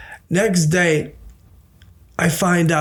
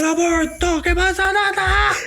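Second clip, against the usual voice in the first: mock angry dad. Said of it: "He's like".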